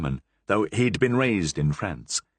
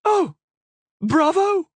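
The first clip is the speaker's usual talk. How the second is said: much higher, louder bravo; delighted cheer; 6 dB louder, slower than usual. Acted. Queen applauding the parrot, high delighted cheer. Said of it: "said the Queen".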